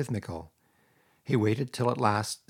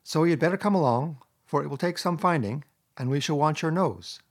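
pleasant cheer; 5 semitones higher than usual. Acted. Rat to tearful Mole, announcing the search: bright and pleasant. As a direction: cheer him up with the plan. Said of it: "replied the Rat pleasantly".

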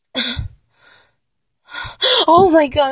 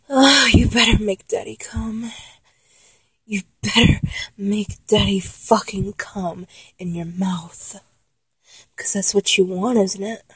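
lower, breath-heavy demand; low command; 4 semitones lower than usual. Acted. Lover taking charge of partner, low commanding. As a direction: turn the plea into a low order.

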